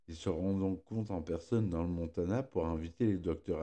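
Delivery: speaking around a sore pierced tongue; words thick from a new tongue piercing; fresh tongue piercing. Real, not acted. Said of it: "je me suis fait percer la langue hier".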